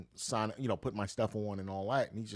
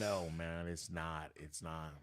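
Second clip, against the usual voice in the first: muttering to self; 5 semitones lower, 7 dB quieter, much slower than usual. Retold or imitated. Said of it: "I was like".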